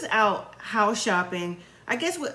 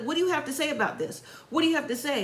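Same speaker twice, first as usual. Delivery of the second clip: imitated challenge, higher pitched; demanding answer; 5 semitones higher, faster than usual. Eric pressing silent Puppy for an answer, mock demanding. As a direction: press for a reply in a raised pitch.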